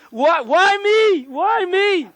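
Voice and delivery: overplayed despair calling out to the sky; theatrical high lament, stretched out; mock anguished wail. Shown as a demonstration. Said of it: "You never see a person do this".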